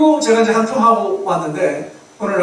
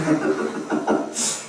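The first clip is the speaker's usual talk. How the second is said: low breathy laugh; chuckling at his own remark; 5 dB quieter than usual. Real, not acted. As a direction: let out a short voiceless chuckle. Laughs after calling himself heretic.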